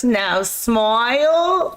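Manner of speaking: slow, drawn-out photographer's "now smile". Retold or imitated. Photographer coaxing a child for a picture, slow and drawn out. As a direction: stretch it out like a photographer posing a kid. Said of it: "He goes".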